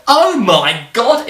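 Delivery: put-on a panicked Spanish sailor, comic Spanish accent; mock Spanish accent. Spanish sailors spotting Drake's ship, mock-panicked Spanish accent. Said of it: "in a Spanish accent".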